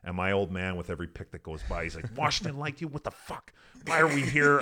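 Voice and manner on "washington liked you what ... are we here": higher, mock incredulous rant; retold outburst. Father in the draft stands fuming at each pick, high mock outrage. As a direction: replay dad's disbelief, pitched way up.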